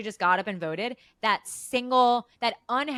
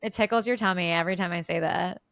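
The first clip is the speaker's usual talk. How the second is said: laughing. Real, not acted. Teasing co-host, laughing.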